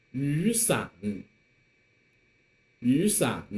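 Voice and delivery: 雨 rising like a second tone before 伞; teacher's model of 雨 with rising tone; third tone changed to second. Shown as a demonstration. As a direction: lift 雨, then drop into third-tone 伞. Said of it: "some more examples that you can join".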